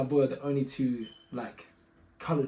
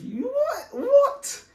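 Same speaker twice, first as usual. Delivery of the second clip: much higher, laughing you what; laughing disbelief; 5 dB louder, much slower than usual. Retold or imitated. Hearing the officer smell weed, laughing disbelief. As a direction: squeal it in laughing shock.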